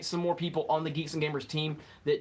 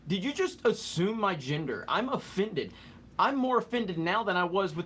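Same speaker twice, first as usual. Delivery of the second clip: hammed-up triggered meme voice; mock offended; 3 semitones higher than usual. Streamer mocking a chatter who assumed gender, hammed-up offense. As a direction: fake being deeply offended. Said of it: "I'm kidding".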